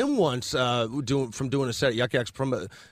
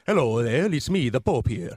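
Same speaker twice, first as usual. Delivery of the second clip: radio DJ Pope; 3 semitones lower than usual. Retold or imitated. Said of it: "radio D J".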